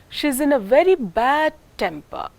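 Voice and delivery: "temper" carries the pitch fall on its first syllable; stress on temper. Shown as a demonstration. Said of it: "most important word in this group is temper".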